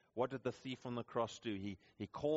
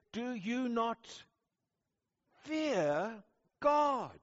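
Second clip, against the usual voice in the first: raised, higher rebuke with a punch on fear; rebuking; 10 semitones higher, 4 dB louder, much slower than usual. Retold or imitated. Thief rebukes the other thief, raised higher rebuke. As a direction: challenge him sharply, voice lifted. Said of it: "he rebukes the first thief".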